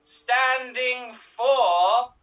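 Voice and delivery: put-on Russian accent. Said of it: "you sound strangely European".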